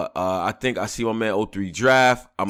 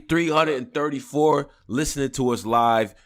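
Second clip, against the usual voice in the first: raspy voice; 4 semitones higher than usual. Real, not acted. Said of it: "me with the raspy voice".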